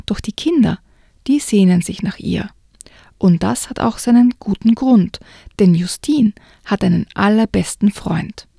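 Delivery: put-on reading a children's book aloud, with light character voices; story narration. Host reading a children's book to listeners, storytelling narration. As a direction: tell it like a bedtime story to kids.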